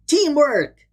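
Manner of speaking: rally the team with a cheer; cheering shout. A narrator's reading. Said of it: "shouted Milo".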